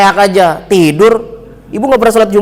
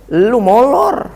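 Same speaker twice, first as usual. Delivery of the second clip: exasperated retort; 3 semitones higher, much slower than usual. Retold or imitated. Retort to man who slept.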